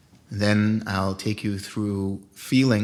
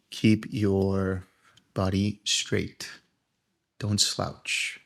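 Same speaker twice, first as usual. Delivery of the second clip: guided meditation. Acted. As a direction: ease the group into stillness, unhurried.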